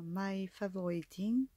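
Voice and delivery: English brand name said with a strong French accent. Real, not acted. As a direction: read the English words the French way. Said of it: "Excusez-moi pour mon accent". (nom anglais prononcé avec un fort accent français)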